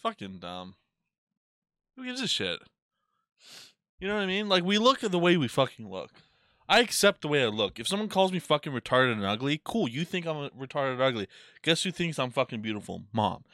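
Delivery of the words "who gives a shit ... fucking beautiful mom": high, loud, fired-up rant; excited rant. Real, not acted. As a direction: belt it out with defiance. Defiant rant about looks.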